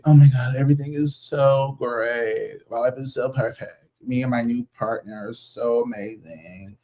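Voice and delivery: bragging friend. Retold or imitated.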